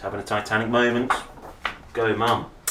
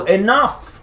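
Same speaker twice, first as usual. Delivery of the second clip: much higher and louder, sharp cry; cried out; 11 semitones higher, 8 dB louder than usual. Acted. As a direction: put a stop to it with one big cry. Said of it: "Mum cried".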